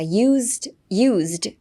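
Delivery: "used" with a voiced z, like "yuuzd"; Z sound in "used". Shown as a demonstration. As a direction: say "used" with a buzzing z before the d. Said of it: "Zにして発音しが ... ちな方が多くて". (「used」をZの音で発音)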